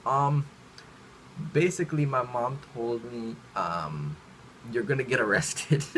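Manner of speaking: halting, with ums and pauses between phrases; hesitant blurting. Retold or imitated. Kid telling a classmate what mom said, hesitant and halting. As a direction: break it up awkwardly, feeling for the words. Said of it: "I didn't say anything properly".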